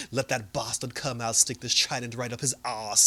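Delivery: lightly imitated foreign accent; retold threat in a mock accent; Mera. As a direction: put a hint of a borrowed accent on it. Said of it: "she still got the accent".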